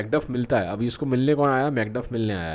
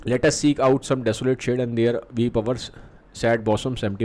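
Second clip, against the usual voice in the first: slow, deliberate reading of verse; Shakespeare recitation; much slower than usual. Acted. Teacher reading Malcolm's line to the class, slow recitation. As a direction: read the old lines out slowly, word by word.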